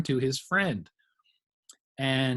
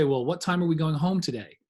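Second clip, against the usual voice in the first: "today?" lifts up at the end; rising question tune; 3 semitones higher than usual. Shown as a demonstration. Teacher shows the question's upward inflection. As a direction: let "today?" rise like a question. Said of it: "There's that little inflection".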